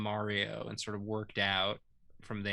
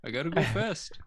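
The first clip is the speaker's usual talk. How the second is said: Sonic voice; 3 semitones higher, 4 dB louder, faster than usual. Pretend. Quoting Sonic.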